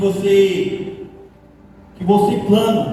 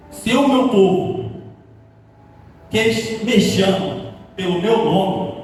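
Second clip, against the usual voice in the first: slow, measured reading of the verse; solemn scripture reading; slower than usual. Acted. Preacher reading the verse to the congregation, slow and solemn. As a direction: read the verse slowly, letting each phrase land. Reads Bible verse to church.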